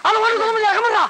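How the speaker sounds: high, impatient outburst; exasperated brush-off. Acted. Man ogling a woman silences friend, exasperated. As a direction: shush your pestering sidekick.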